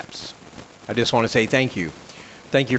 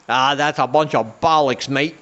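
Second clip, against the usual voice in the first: put-on British accent. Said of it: "I don't do good impressions".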